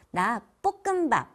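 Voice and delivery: "볶음밥" with hard tensed consonants; 된소리로 "볶음밥". Shown as a demonstration. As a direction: push "나 볶음밥" out with strong 된소리. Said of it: "이렇게 세게 된소리를 하는 경우가 많아요".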